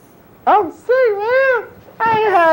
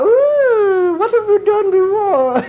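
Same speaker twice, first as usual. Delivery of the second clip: higher, prissy imitation of the interviewer; mock office clerk; 4 semitones higher than usual. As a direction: lightly mimic the snooty clerk.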